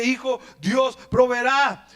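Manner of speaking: slow, fuller Dios proveerá; slow grateful declaration; relieved tender father. Acted. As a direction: let the relief pour out slowly. Father embraces son after rescue.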